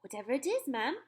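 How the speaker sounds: put-on a respectful young maid; maid's voice. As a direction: answer the mistress as her maid. Maid answers the queen.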